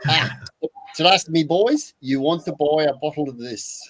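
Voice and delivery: a slow, put-on South African accent; mock South African salesman; hammed-up South African pitch to the boys. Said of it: "in my best South African accent".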